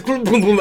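imitated tumbling booms. Game master acts out something falling from a tree, booming. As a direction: boom it out like a tumble.

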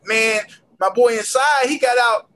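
mock-excited client insisting, drawn out; imitating eager client. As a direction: plead it like a client with a hot tip. Voicing a client's hopeful jail story.

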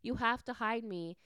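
high, loud mock panic; rushed, high-pitched fluster easing toward the end; freaking out. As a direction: imitate someone frantic to hide. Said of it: "freaking out, like".

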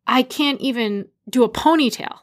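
imitating an amazed husband, pitch jumping up; excited. Husband to mom about her daughter's braids, excited. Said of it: "And Michael's so excited".

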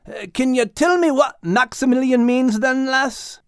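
eager question. Acted. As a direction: ask hopefully, fishing for praise. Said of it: "Max looked up to see Liz".

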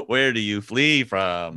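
a hint of pompous orator, drawn out; Frasier. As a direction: lightly imitate a lofty, slow speaker. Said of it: "how Frasier would say it".

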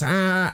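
high imitated weird laugh; weird Twin Peaks laugh. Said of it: "does, like, the weird Twin Peaks laugh".

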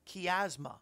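"chiasma" opening with a kee sound; careful pronunciation. Shown as a demonstration. Preacher trying out an unfamiliar word for listeners, careful pronunciation. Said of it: "I hope I'm saying it right".

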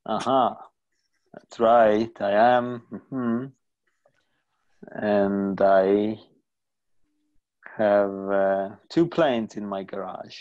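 Obama impression. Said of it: "Let's do an impression of Barack Obama".

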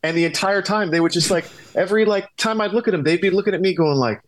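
talking high through leftover laughter; laughing through words. Real, not acted. Guest recalling being benched after the prank, talking through laughter. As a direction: keep the giggle in every word.

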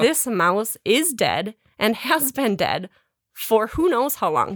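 slow, emphatic retold verdict; imitating someone laboring the obvious, drawn out; slow pronouncement. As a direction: spell out the verdict slowly, word by word. Retold verdict on dead mouse.

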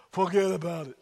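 a hint of a New York accent. Pastor retrying the catchphrase, amateur New York accent. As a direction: have a modest go at sounding New York. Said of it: "I can't do a New York accent".

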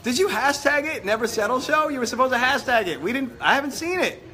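high laughing pleas. Real, not acted. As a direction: laugh through the words. Laughing, urging Claudia to share.

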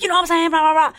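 hammed-up self-imitation of a heated rant; imitating own ranting. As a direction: parody yourself mid-rant, voice up high. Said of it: "raise my voice and start speaking really fast".

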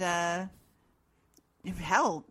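ordinary talk, nothing marked

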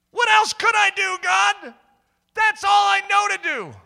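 high, loud plea in self-defence; exasperated protest. Retold or imitated. Young man arguing back at God, exasperated. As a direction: cry out helplessly, acted.

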